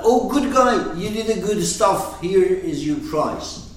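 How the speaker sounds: playful imitation of a patronising rewarder; mock praise. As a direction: imitate someone handing out a prize, mock cheerful. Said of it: "The effect is not that".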